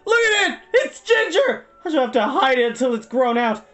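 very high, loud, hysterical rant; wailing, furious shriek; screamed tantrum. A narrator's reading. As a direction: scream accusations in despair. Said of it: "screamed Hal".

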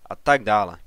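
second "a tak dále" dropping down, tired; weary scornful trailing repeat; dismissive, falling away. Acted. Father waves off son's report.

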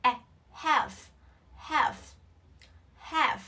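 "half" with a vowel between A and E. Shown as a demonstration. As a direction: say "half" with the open æ of "cat". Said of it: "A E nhá". (đọc "half" với âm A pha E)

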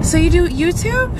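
high, curious mock question; nosy receptionist voice. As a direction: imitate her prying tone. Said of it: "she's gonna be like".

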